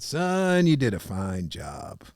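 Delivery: lightly voiced old mentor. Voicing Zig Ziglar.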